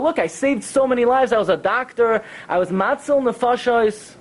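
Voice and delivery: high, insistent mock protest; imitated desperate appeal; screaming and crying retold. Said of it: "he starts screaming and crying".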